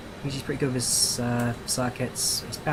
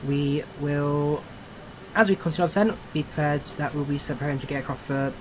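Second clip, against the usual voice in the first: plane cabin announcement. Shown as a demonstration. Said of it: "I'm gonna start that again".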